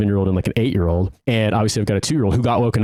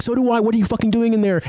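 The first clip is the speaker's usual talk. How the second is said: retold angry yell; 13 semitones higher than usual. Retelling yelling at the upstairs neighbor over the noise, hammed-up angry shout. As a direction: snap back at him, half-shouting.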